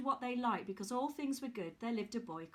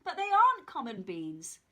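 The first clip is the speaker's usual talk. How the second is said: put-on old man insisting; 8 dB louder than usual.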